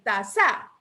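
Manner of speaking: "taza" wrongly stressed as ta-ZA; misplaced stress, "taza" ending on strong ZA; stress on final syllable. Shown as a demonstration. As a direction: lean on za in "taza", questioning it. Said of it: "así estará bien".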